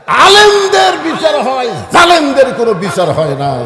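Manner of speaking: loud preaching cry, starting high; impassioned denunciation. Real, not acted. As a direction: thunder out the injustice to the crowd. Preacher decries injustice to the crowd. (গলা চড়িয়ে তীব্র প্রতিবাদী ওয়াজ)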